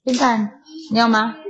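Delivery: high, lilting call of a pet name. Real, not acted. Mother calling her baby's pet name playfully, high and lilting.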